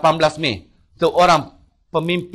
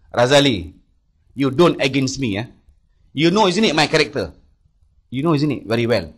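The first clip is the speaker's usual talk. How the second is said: mild menace; 4 dB louder than usual. Retold or imitated. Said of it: "Terus dia maki saya".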